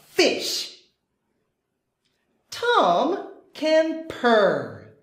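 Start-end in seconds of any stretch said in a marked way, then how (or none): 0.1-0.8 whispered fish. Acted. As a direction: breathe it as a whisper. Dream reveal whispered.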